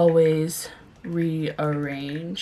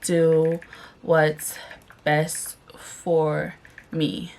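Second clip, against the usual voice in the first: slow; much slower than usual. Shown as a demonstration. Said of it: "I gotta do".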